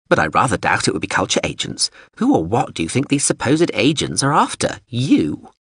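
a touch of the huffy drone; prim drone voice. Acted.

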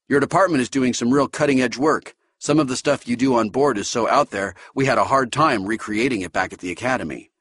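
keen recruit praising the department; Dahl's voice. Acted.

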